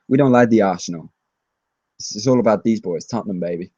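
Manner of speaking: lightly imitated film star; a mild celebrity impression, easing off at the end; Mark Wahlberg. Spurs fan redoing a star's video line, lightly impersonated. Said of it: "I'm gonna do my Mark Wahlberg impression".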